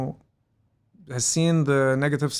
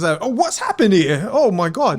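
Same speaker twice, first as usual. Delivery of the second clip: slow, loud, higher exclamation; mock shock; 6 semitones higher, 8 dB louder, slower than usual. Teller walking into the house, slow loud mock shock. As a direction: play it floored and drawn out.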